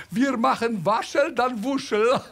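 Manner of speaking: cheerful put-on Italian accent. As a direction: greet customers like an Italian salon boss. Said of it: "Wie der schon bei der Begrüßung".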